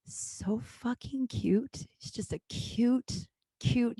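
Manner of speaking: slow, soft, drawn-out adoration. Real, not acted. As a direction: stretch the words out softly, cooing with affection. Gushing over a friend's baby.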